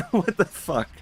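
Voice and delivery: high-pitched curse breaking into laughter; laughing disbelief. Acted. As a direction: say it again while cracking up.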